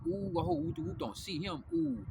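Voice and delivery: high mock ooh of nosy neighbors; gossiping neighbors. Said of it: "They was like".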